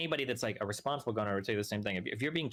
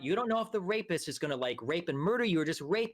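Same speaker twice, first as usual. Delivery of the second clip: mocking quote; 5 semitones higher than usual. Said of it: "you would say".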